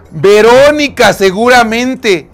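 slow knowing gasp at the culprit; gasping realization. Real, not acted. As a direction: drag the name out knowingly. Guessing the culprit.

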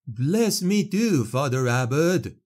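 high, loud plea; shout. A narrator's reading. Peasant shouting to Claude for a blessing, high and loud. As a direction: call out over the crowd, pleading. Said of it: "shouted another peasant".

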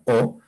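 "O" as a pure Spanish vowel; vowel demonstration. Shown as a demonstration. Teacher points out each Quechua vowel, "O" as in Spanish. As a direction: give a clean, rising "O". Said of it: "aquí se pronuncia".

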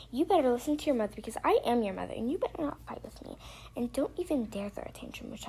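quick, firm play-scolding; scolding mother. Pretend. Mom warns arguing daughter to obey, scolding. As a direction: lay down the law as a pretend mom.

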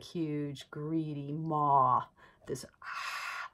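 breathy monster whisper, greedy maw. Acted. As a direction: hiss it like a devouring mouth. Describing the devouring hell mouth.

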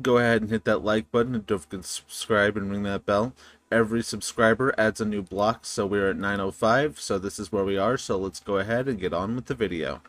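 fast, offhand subscribe plug; quick plug. Acted. Gamer rushing his viewers through the subscribe ask. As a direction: rattle off the like and subscribe.

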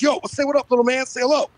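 mock rapper dad voice. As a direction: imitate a rapper hailing his kid. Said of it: "the only impression I can fucking do".

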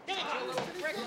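laughing shout. Acted. Gangster bellowing after shooting at the dancing waiter, laughing shout.

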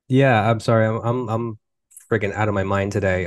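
talking with a sore, swollen mouth; after wisdom teeth. Real, not acted. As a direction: speak carefully around healing gums. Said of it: "I can barely talk".

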